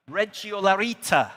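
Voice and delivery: attempted northeastern Italian accent. Shown as a demonstration. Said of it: "in my best northeastern Italian accent".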